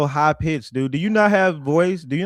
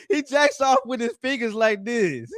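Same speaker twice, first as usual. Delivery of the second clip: laughing; 12 semitones higher than usual. Real, not acted. Mocking caller, breaking into laughter.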